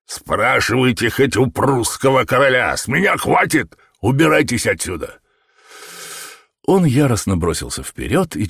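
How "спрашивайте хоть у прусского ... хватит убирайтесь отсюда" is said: angry dismissal. A narrator's reading. Shopkeeper drives man away.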